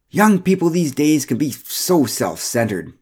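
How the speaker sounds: slow, high tut-tutting busybody; disapproving Pamela. Acted. Pamela complaining to Mara about young people, slow and prim. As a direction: drag out the disapproval.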